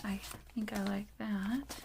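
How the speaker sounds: soft whisper of quiet approval; whispered to herself. Real, not acted. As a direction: breathe it as a private verdict. Pleased, muttering to herself.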